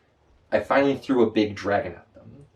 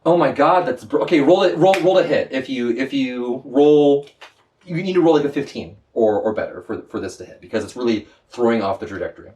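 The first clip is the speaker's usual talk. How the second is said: excited DM; 3 semitones higher, 4 dB louder than usual. Retold or imitated. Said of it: "I'm going".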